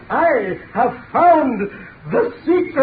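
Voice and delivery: triumphant. Acted. Triumphant climax.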